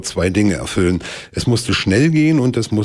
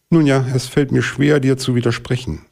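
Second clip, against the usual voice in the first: blackbird's voice; 6 semitones higher than usual. Acted. Amsel antwortet dem Bären.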